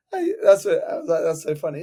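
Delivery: high laughing exclamation; amused squeal. Real, not acted. Coach cracks up at client's demand. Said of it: "I was laughing so much".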